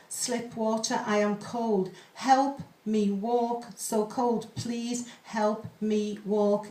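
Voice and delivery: slow, measured poetry reading; poem reading. Acted. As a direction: read the pantoum slowly, hauntingly. Reads a pantoum aloud.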